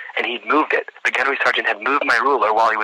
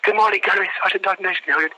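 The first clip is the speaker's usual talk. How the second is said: high, raised recruit greeting; recruit sounding off; 9 semitones higher, faster than usual. Retold or imitated. Candidate greeting the gunnery sergeant at attention, high sounding-off voice. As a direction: recite it urgently as a nervous candidate.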